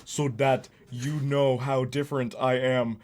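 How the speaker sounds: laughing parody of a fake Slavic accent; mock Slavic accent. Streamer parodying Wanda's fake Slavic accent. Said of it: "so a fake Slavic sounding".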